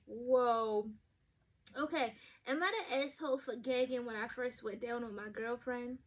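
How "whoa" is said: surprised. Retold or imitated. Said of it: "I'm looking at the title and I'm like".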